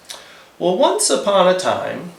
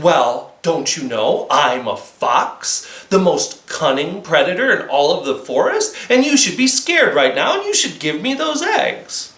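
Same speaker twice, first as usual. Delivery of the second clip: blustering fox. Acted.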